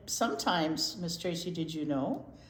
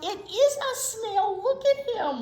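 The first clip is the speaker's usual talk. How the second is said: higher, louder, thrilled to show the puppet; much higher, excited reveal to the kids; excited show-and-tell; 13 semitones higher, 7 dB louder than usual. Acted. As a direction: squeal with delight at the snail. Excitedly showing snail puppet.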